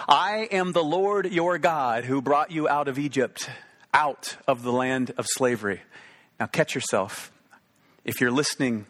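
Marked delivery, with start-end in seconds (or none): 0.1-5.8 slow, weighty reading of God's words; solemn scripture reading. Shown as a demonstration. Preacher reading the command to the congregation, slow and solemn. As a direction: intone it like scripture read aloud. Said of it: "God spoke these words".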